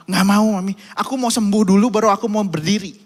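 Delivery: put-on a kid digging in his heels; stubborn child. Son refuses to stand up for mami, loud and whiny.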